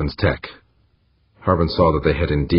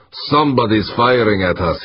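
raised, high-pitched insistence; insistent; 6 semitones higher, 3 dB louder than usual. A narrator's reading. Harbin overruling his crew under fire, forceful high insistence. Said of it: "he insisted".

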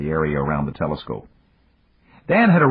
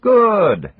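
beaming; 8 dB louder than usual. Acted. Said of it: "Yamagata beamed happily".

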